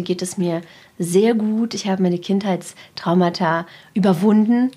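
slow, calm late-night radio host voice; lightly put-on soothing radio host; Domian voice. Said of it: "warum hast du jetzt diese Domian-Stimme da gerade so aufgelegt".

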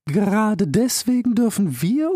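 high, very slow, heavy elder rebuke; slow, stern old turtle. Acted. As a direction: scold him with weary patience. Turtle voiced.

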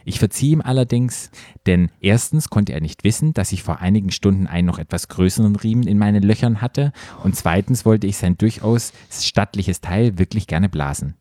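measured read-aloud voice, lowering as it goes; composed narrator delivery; story narration. A narrator's reading. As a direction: read it out like an audiobook. Reads erotic story aloud.

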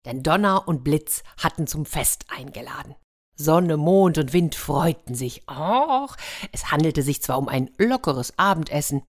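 lively storyteller reading a fairy tale; playful storyteller; story narration. A narrator's reading. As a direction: tell it like a bedtime story to children. Fairy tale read aloud.

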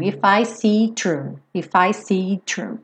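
Don't know if I see true with it dropped; swallowed it before true. Shown as a demonstration. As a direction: let it vanish into see true. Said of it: "ele sumiu".

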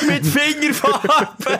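high, slow, squealed words. Acted. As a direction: squeal it out like a delighted child. Excited silly exclamation.

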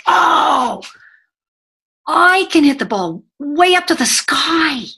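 put-on high, loud boastful kid voice; bragging little boy. Trainer imitating a preschool boy bragging to his friends, high and loud. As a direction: crow it like a proud little boy. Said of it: "the second little boy says".

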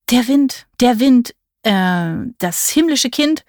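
reciting reply. A narrator's reading. Visitor answers the witch with the rhyme, reluctant recital. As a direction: recite it reluctantly, stumbling for the line.

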